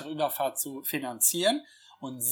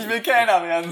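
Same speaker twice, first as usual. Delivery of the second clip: mock blunt declaration, louder and a bit higher; richtig stumpf; 4 semitones higher, 6 dB louder than usual. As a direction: blurt it out like a dull-witted man. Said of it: "sagt er so richtig stumpf". (stumpf und plump nachgeäfft)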